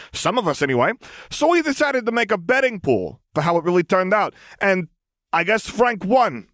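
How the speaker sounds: put-on high, hesitant young man; awkward young German. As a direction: explain it sheepishly. Friedrich explains awkwardly.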